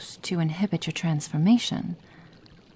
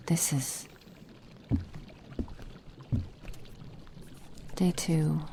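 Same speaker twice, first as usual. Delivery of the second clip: quiet note-taking; 11 dB quieter than usual. Acted. Muttering a clinical log.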